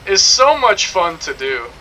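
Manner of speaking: slow, drawn-out British delivery; exaggerated British accent. Shown as a demonstration. Streamer showing off his dubbing voice, exaggerated British accent.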